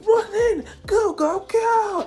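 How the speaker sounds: high, loud announcer shout; Professor Mike. Acted. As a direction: yell the start signal at a high pitch. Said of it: "until Professor Mike shouts".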